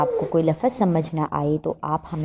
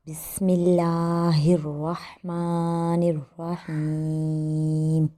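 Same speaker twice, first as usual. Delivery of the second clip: slow recitation; much slower than usual. Shown as a demonstration. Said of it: "ایک بار پھر پڑھتے ہیں".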